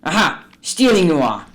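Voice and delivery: high, sharp accusation; accusing shout. Acted. Scrooge to his clerk at the coals, accusing shout. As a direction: hurl the word at him.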